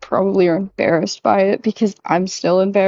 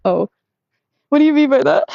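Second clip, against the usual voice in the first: mock surprised question; 6 semitones higher, faster than usual. Reacting to learning of other girl.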